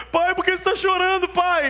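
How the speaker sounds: put-on very high, loud child voice; alarmed little boy. Son finding his praying father crying, alarmed. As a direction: imitate a small son calling out in concern.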